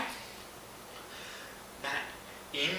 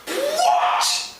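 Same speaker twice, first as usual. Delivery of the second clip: very high-pitched, disbelieving yelp; incredulous outburst. Acted. Storyteller reacting to Frankie's devil's-eye saying, incredulous. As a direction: burst out in disbelief.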